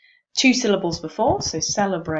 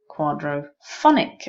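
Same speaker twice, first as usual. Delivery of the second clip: "Quadraphonic" with "phon" punched up and louder; stress demo; 3 semitones lower, 3 dB louder than usual. Shown as a demonstration. Teacher working out primary and secondary stress, stress demo. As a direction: sound out "Quadraphonic", hitting "phon" hardest. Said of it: "but the secondary stress".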